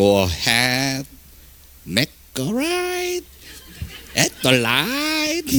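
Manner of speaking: exaggerated Southern US drawl, light and swooping. Imitating Southern locals giving directions, in an exaggerated Southern US accent. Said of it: "제가 흉내를 잘 낼 수 있을란가 모르겠는데 ... 거기 남부에 있는 사람들은요 길을 물어보면".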